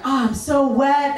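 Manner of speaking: high, breathy-free mock delight; giddy excitement. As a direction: gush over it happily. Quoting herself in ecstasy.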